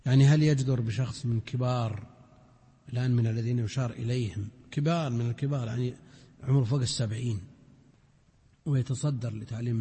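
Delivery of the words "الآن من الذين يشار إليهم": ordinary delivery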